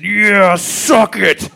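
high, loud eager cheer; egging ghost voice. Acted. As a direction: egg him on, loud and high. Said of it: "the voice said".

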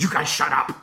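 imitating an exasperated coworker; mock exasperated outburst. Matthew cuts off Bill and Joe's teasing, mock exasperation. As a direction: put on a fed-up protest without really shouting.

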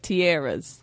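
slow "tiaras" with a stretched AIR middle; Philly pronunciation. Shown as a demonstration. Co-host guessing the Philly way, "tiaras" as slow tee-AIR-uhz. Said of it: "It may be in Philly".

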